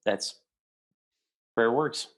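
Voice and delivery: hushed, choked-up whisper; an imitated crying whisper; tearful whisper. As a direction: breathe it out as if fighting back tears. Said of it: "he starts crying".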